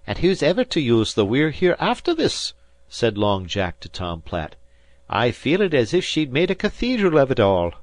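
a light touch of an awed Irish fisherman; lightly voiced Irish sailor. A narrator's reading. Long Jack's Irish fisherman voice.

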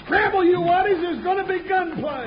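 loud urgent call to the hands; shouted warning. Acted. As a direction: yell it out to scatter the crew. Alarm call to the cowhands.

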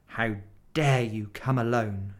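wicked witch, cold and furious; terrible voice. Acted. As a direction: menace him as the queen. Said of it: "said the witch in a terrible voice".

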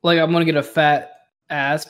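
shouting through a laugh. Real, not acted. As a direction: blurt it out laughing.

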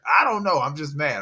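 imitating a grumpy little boy, high and loud; frustrated kid. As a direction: play the fed-up son who can't explain it. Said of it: "He's like".

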